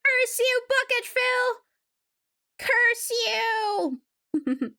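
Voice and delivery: high, drawn-out hammed-up curse; mock villain curse. Streamer mock-cursing a chatter, hammed-up villain cry. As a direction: shake a playful fist at him.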